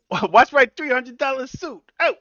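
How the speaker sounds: high, loud, slow mobster whine; Penguin whining. Retold or imitated. Penguin whining to Batman about his suit in a high loud slow voice. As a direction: protest your fancy suit like a gangster.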